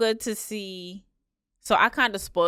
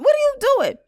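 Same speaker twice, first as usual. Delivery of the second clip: mock exasperation; 6 dB louder, faster than usual. Mock exasperated retort to friend.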